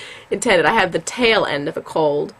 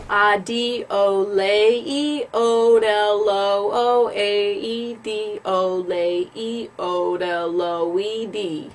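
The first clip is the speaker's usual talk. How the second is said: spoken syllables; much slower than usual. Shown as a demonstration. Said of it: "I'm gonna speak them".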